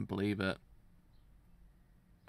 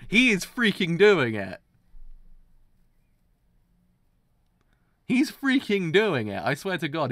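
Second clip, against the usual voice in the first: high, loud, freaking-out excitement; hyped disbelief; 7 semitones higher, 9 dB louder than usual. Real, not acted. Viewer freaking out as the villain acts. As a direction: lose it over what's on screen.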